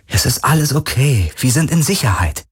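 cautious soothing; gentle. Acted. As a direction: gently reassure someone who is frightened. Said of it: "sagte er behutsam".

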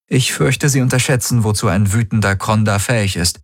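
deutlich höher, schnippisch; spitze Kirai. Acted. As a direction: trocken einwerfen. Kirai smiles humorlessly. (hohe, spitze Frauenstimme)

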